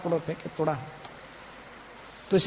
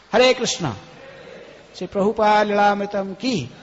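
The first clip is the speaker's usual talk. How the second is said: devotional jay call. Real, not acted. Closing devotional call to audience.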